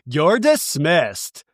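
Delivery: slow, drawn-out brush-off; mock dismissive. Acting out Lisa half turning to Bronwyn, mock dismissive. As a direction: imitate a lofty dismissal, taking time over it.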